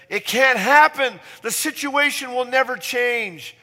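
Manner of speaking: high, loud exclamation of hopelessness; voice of doubt. Acted. Preacher voicing something in us that doubts, loud emphatic cry. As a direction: cry out the doubt, pitched well up. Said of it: "When something in us says".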